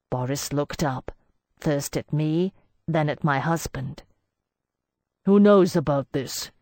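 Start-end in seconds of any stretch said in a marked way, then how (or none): 5.2-6.5 louder, sharp demand. A narrator's reading. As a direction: demand the truth. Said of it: "he demanded".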